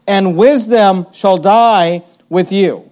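slow, dry, mocking; sarcastic. Shown as a demonstration. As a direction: draw it out with a sarcastic edge. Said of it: "he has this sarcastic".

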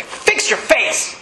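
slow, unvoiced, hard-edged instructor order; drill instructor. Military instructor to a sulking recruit, slow voiceless order. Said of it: "he'd walk up to you and say".

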